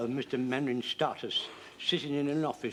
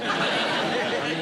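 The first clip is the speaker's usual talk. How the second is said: embarrassed laugh; 6 dB louder than usual. Acted. Embarrassed over his own metaphor.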